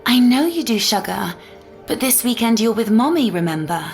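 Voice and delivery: lilting, upbeat mommy voice; coaxing a child. Acted. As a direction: win a little one over with a treat. Mother coaxes child with rival plan.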